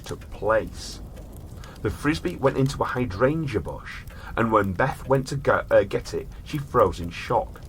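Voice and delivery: measured storyteller reading; story narration. A narrator's reading. Host reads a strange case to his brother in storyteller voice.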